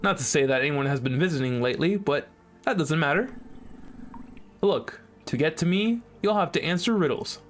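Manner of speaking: taunting character voice. Acted. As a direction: tease them like a smug puzzle master. Voices the intercom game character.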